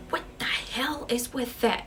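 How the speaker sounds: acted alarm, demanding an answer; freaking out. Sarah reacting as candles blow out, freaking out. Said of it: "she's just freaking out".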